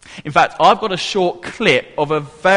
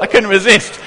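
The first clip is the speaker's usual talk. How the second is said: laughing; faster than usual. Real, not acted. After splashing water.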